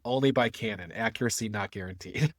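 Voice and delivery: lightly voiced pirate ad read; a hint of a hammy pirate pitchman. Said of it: "I hope you all enjoyed my pirate voice".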